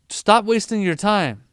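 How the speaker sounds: loud, slow scolding from a parent. Retold or imitated. A parent scolding their child who is wasting time on homework, loud and slow. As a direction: tell the kid off, firm and loud. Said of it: "mom or dad is like".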